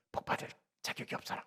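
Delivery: whispered under the breath; muttered thought, barely voiced; inner thought whispered. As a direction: whisper the secret wish inside. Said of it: "속으로 바라는 거지".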